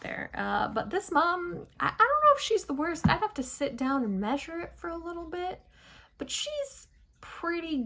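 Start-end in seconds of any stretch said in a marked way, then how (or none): 4.6-7.8 words stretched by a yawn. Real, not acted. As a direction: talk through a yawn. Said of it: "I'm yawning".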